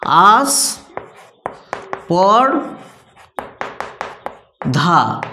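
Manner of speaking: আস, পর, ধা with long pauses between, ধা low; slow syllable-by-syllable teaching; syllables spelled out. Shown as a demonstration. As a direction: split আস্পর্ধা slowly into আস, পর, ধা. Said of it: "অর্থাৎ".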